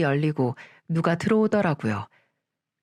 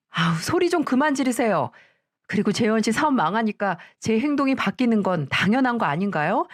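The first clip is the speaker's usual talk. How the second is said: sharp, slightly higher talking back to the mother-in-law; defiant daughter-in-law; 3 semitones higher than usual. Acted. Daughter-in-law snaps back at her mother-in-law in an indignant voice.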